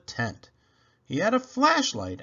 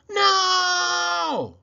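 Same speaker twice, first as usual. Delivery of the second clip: panicked high scream, much louder; 7 dB louder than usual. A narrator's reading. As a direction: yell it out in sudden panic. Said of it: "screamed Poppleton".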